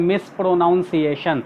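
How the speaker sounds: "मिसप्रोनाउंसिएशन" read piece by piece, with "noun"; broken-up misreading. Shown as a demonstration. Teacher showing how we read it in pieces, "मिसप्रोनाउंसिएशन" with "noun". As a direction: sound out "मिसप्रोनाउंसिएशन" as mis-pro-noun-see-ation. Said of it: "तोड़ तोड़ कर हम लोग को पढ़ने".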